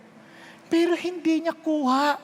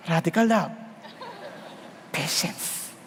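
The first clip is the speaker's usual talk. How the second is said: strained patience; 10 semitones lower, 7 dB quieter, slower than usual. Retold or imitated. Preacher mocks his own restraint.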